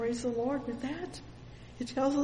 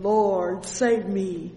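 a louder cry for help; 6 dB louder, slower than usual. Acted. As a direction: call out for rescue, a little louder. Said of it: "all he could do is cry out".

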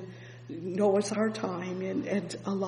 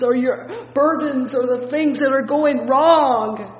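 higher and louder, building list; fervent preaching; 5 semitones higher, 10 dB louder than usual. Acted. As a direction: lift the congregation's hope.

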